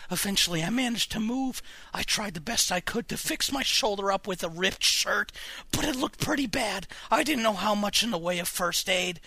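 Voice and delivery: shaken story narration. A narrator's reading. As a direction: narrate the aftermath still upset. Reads aftermath of the attack.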